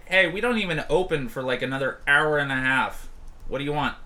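brisk irritated bartender; Robbie, annoyed. Acted. Bartender to early visitors, brisk and annoyed. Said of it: "she's like".

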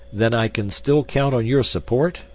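relieved. A narrator's reading. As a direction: ask it with mild relief. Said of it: "a tone of relief marking his voice".

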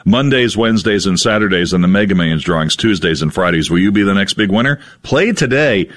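upbeat radio ad read. Acted. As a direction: sell it like a lottery spot. Reads a lottery ad.

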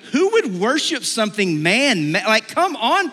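high, exasperated incredulity; mock disbelief. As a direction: scoff loudly at such foolishness. Mimicking our scorn of idolaters.

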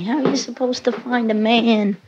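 imitating nagging mother. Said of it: "My mother's always yelling at me".

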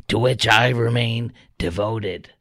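slow, lightly put-on mocking official voice; mock a bureaucrat's measured statement, slowly; a hint of a slow, prissy official reading a statement; Alejandro Mayorkas impersonation. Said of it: "Mayorkas impersonation".

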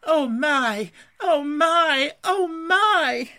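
loud, high cries of wonder, climbing each time; awestruck gasp. A narrator's reading. Mole overcome at what Rat has brought, gasping loudly. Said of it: "and gasp".

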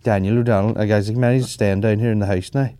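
a hint of a Donegal singer's accent. Host asking guests who's staying, in a lightly mimicked Donegal accent. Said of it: "what's the Daniel O'Donnell accent".

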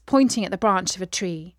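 ordinary delivery, nothing marked

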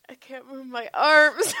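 high cry rising to a shout; hammed-up tearful complaint; mock helpless wail. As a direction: wail it helplessly, half laughing. Retold helpless complaint while laughed at.

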